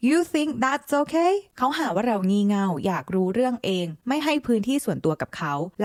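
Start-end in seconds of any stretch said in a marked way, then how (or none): 0.1-1.3 much higher, slow, rising on "okay"; outraged disbelief. Acted. Host repeating the question to the boyfriend, high and outraged. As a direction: push "okay" up high like you can't believe it. Reacting to cheating boyfriend's excuse.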